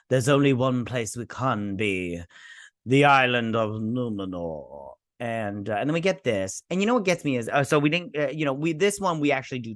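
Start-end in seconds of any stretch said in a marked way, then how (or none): 0.1-4.9 slow, drawn-out dramatic reveal; mock portentous. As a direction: stretch the place name with mock grandeur. Acting out a show's grand reveal.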